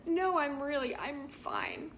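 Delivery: mock-crying insistence that trails into breath; retold tearful reassurance. Wife retelling the phone call to her husband, imitated tearful reassurance. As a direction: act out a tearful protest, fading to a whisper. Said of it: "crying still".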